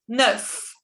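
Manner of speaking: "Neuf" with a schwa-like vowel. Shown as a demonstration. Teacher showing French nine, EU as schwa. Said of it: "se pronuncia como la schwa".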